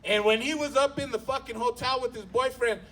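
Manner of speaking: usual speaking voice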